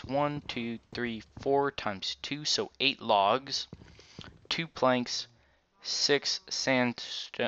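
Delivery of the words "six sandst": talking around new aligners; wearing aligners. Real, not acted. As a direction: mouth full of aligners. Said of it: "still getting used to these aligners".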